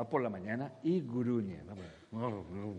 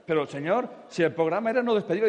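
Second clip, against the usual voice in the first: protesting angel; 5 semitones higher, 9 dB louder than usual. Retold or imitated.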